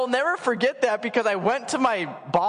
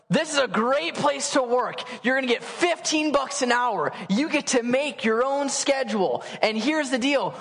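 upbeat recruiter pitch; 5 semitones higher than usual. Retold or imitated. Acting recruiter pitching the job.

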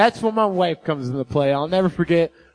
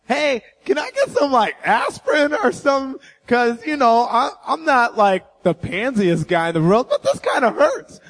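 high, laughing plea for aspirin; half-laughing, raised plea; pleading; 5 semitones higher than usual. Retold or imitated. Pastor asking hospital staff for aspirin, high pleading.

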